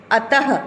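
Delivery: teacher showing the विसर्ग sound; breathy ह ending. Shown as a demonstration. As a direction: let अतः end on a breathed ह. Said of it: "ह की ध्वनि आती है".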